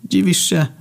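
high snorting retort. A narrator's reading. Narrator snorts at Athena. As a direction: scoff it out. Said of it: "parsknąłem".

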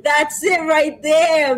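slow, loud hype shout; excited shout. Real, not acted. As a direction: call it out big and slow. Host hypes the dancing.

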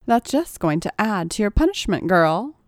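usual speaking voice

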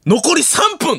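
high, loud countdown warning; urgent staff cue. Retold or imitated. Staff warn performer on live TV, high urgent call. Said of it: "って出して".

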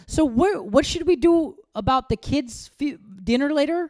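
high, sweetly innocent question; fake-casual high voice to nudge the husband; passive aggressive. Imitating her own faux-innocent question to her husband about dinner. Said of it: "the ninja covert passive aggressive thing".

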